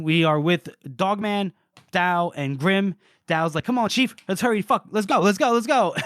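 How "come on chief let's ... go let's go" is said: impatient urging. Retold or imitated. Dao urging the group forward.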